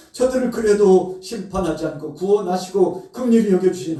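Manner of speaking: high, loud, fervent thanksgiving; fervent prayer. Acted. The prophet praising God's mercy, high fervent prayer. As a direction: pray with rising fervor.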